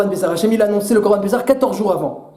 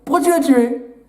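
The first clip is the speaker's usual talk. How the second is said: higher, pressing question; God confronting Cain; 3 semitones higher than usual. Acted. God asks Cain where his brother is, high and pressing. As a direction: demand an answer. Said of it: "Hachem, il aura dit".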